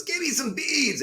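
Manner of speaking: high, drawn-out mock cheer; Mike Ditka. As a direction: imitate a coach crowing the punchline, slow and high. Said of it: "throws his hands in the air".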